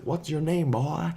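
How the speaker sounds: mock bully. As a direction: press him for his name. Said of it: "and he's like".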